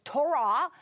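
Torah with the final syllable stressed; stress on second syllable. Shown as a demonstration. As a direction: say Torah as to-RAH, leaning on the RAH. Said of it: "with the accent on the second syllable".

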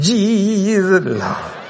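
long drawn-out cry in imitated Black American preacher style. Preacher calling on Jesus, imitated Black American style. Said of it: "let me say it like a black person".

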